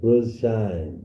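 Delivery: sharp high call to get attention; hey, shout it across the room; loud greeting call. Real, not acted. Host calling out to caller.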